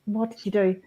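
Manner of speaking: a hushed, amused telling-off to herself; mild self-scolding. Retold or imitated. Laughing at herself after a mistake, softly scolding. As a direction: catch yourself out gently after a slip. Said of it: "I'll go".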